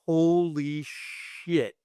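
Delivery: slow stunned holy shit. Retold or imitated. Crew staring at the effects boss, slow stunned. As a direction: say it like they're frozen in shock.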